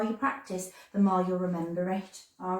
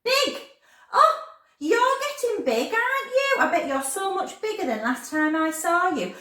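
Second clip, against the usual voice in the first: excited; 10 semitones higher, 4 dB louder than usual. Real, not acted. Cooing at growing child.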